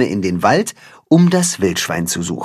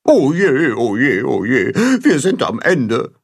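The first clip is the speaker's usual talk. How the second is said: despairing. A narrator's reading. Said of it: "winkt Gram verzweifelt ab".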